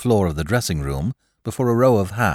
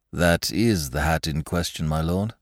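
unexcited. Acted. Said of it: "said Mister Graves without excitement".

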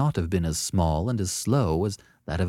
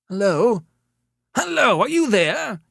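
high, loud, urgent telephone call; 13 semitones higher, 6 dB louder than usual. A narrator's reading. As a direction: call anxiously into a silent receiver. Caller shouts to regain listener's attention.

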